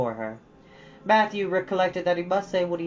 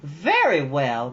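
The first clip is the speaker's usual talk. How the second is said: crisp; 5 dB louder, much slower than usual. Acted. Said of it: "Marilla's crispness".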